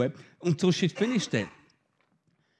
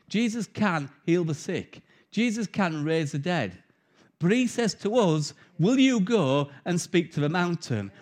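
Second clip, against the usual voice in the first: measured preaching. Acted. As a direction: build each Jesus line like a proclamation. Preaches to congregation.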